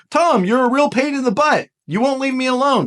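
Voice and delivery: mildly fed-up quoted complaint; lightly voiced annoyed friend; voicing a nine. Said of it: "they don't want to say".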